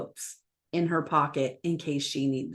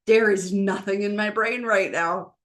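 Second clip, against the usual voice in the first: bold, unbothered admission; slower than usual. Pretend. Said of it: "just boldly going".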